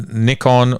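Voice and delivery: "Nikon" with the short i of nick. Shown as a demonstration. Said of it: "asks the question of the ages".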